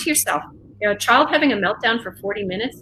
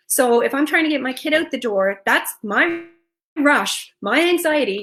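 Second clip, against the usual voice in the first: hurried and pitched up, demoing a parent in a rush; anxious rushed voice; 4 semitones higher than usual. Shown as a demonstration. Parent showing her own rushed morning voice, higher and fast. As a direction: rattle it off like you're late getting the kid out the door. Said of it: "you can hear your voice up high".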